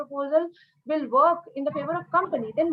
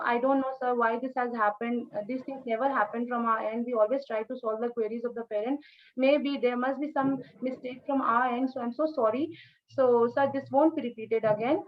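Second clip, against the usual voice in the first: calm response; 2 semitones lower than usual. Shown as a demonstration. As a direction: stay cool, soothe the customer. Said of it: "with a calm, response".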